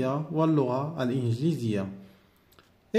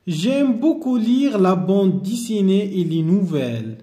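slow model reading; slower than usual. Shown as a demonstration. Teacher reading the sentence to pupils, slow and clear. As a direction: read it slowly and clearly for learners. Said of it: "teacher rereads sentence to pupils".

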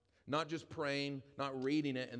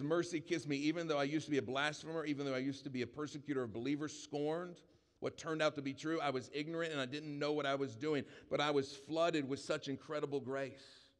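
scripture declaration. Acted. Preacher rereading the verse to the church, fervently. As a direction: proclaim the verse with conviction.

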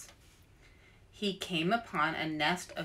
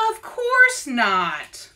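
slow emphatic; 4 semitones higher, 9 dB louder, much slower than usual. Acted. Louise slow indignant.

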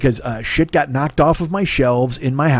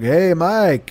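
lightly imitated German accent, higher pitch; German-accented neighbor; 4 semitones higher than usual. Neighbor greets him from the balcony, mock German accent. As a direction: call out with a touch of German. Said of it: "he sounds like he's German".

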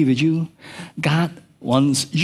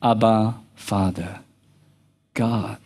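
simple prayer; 6 semitones lower, slower than usual. Shown as a demonstration. Believer simply calling God Father, low and gentle. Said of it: "only need to do is simply say".

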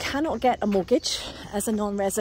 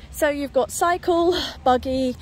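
excited; 5 dB louder, slower than usual. Real, not acted. Listing paths with enthusiasm.

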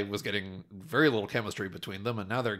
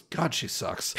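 laughing verdict; 9 dB louder, slower than usual. Retold or imitated. Recalling reaction, breaking into laughter.

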